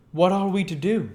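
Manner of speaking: cautious doctor probing gently; lightly voiced, careful questioner; a hint of wary Kemp. Kemp asks.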